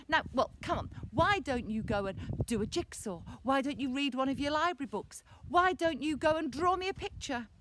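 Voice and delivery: mum's brisk, lively urging; lightly voiced encouraging mother; coaxing mum. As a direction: push suggestions with rising insistence. Mum urging bored boy in story.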